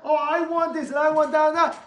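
high, loud, whiny mock greed; mock whining. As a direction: whine like a spoiled child. Mocking greedy voice.

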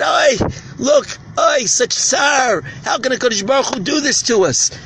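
anguished lament. Retold or imitated. Prophet laments the destruction, acted out.

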